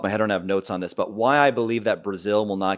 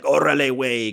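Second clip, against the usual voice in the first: higher-pitched Mexican slang impression; mock Mexican accent; 5 semitones higher, 3 dB louder than usual. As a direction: toss out a quick Mexican accent. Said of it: "like, a Mexican".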